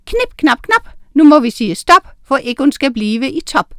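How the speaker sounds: high, rhythmic incantation; called-out spell. A narrator's reading. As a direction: cast the rhyme out loud. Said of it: "mens hun råbte".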